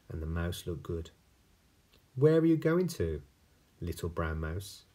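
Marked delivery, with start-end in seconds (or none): 2.2-4.9 owl voice. Acted.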